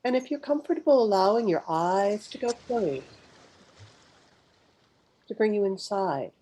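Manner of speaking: unhurried meditation guide, long pauses between phrases; guided meditation. Real, not acted. Guide leading live listeners through a mindful pause, guided meditation. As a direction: guide listeners gently inward, phrase by phrase, leaving space to breathe.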